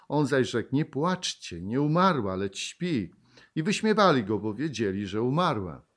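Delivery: loud, declaiming Bible reading; solemn pulpit reading of the Gospel; scripture reading. Acted. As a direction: proclaim the passage to the congregation. Preacher reads Luke 8 aloud.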